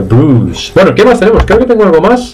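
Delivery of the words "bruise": "Bruce" as long "brus", no I; falling "Bruce" on one pure u; silent I. Shown as a demonstration. Teacher offers a memory aid, "Bruce" with silent I. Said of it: "También ayuda un poquito".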